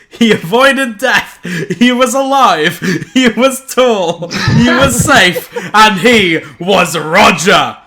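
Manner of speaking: slow, grand narration while laughing; laughing triumphant narration. Acted. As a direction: declare the hero's escape slowly, cracking up. Triumphant story narration through laughter.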